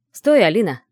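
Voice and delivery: loud, urgent call to stop. Acted. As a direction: call sharply after someone walking away. Character calls after departing woman.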